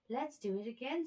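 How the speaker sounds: a mouse itching to play again; playful mouse. A narrator's reading.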